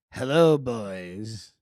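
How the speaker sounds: mock mom greeting. Mother voiced in a story.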